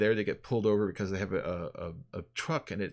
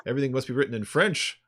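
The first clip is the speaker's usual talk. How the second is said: Canadian cop voice, a bit higher and louder; Canadian accent; 3 semitones higher, 5 dB louder than usual. Retold or imitated. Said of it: "Breaking your little Canadian accent".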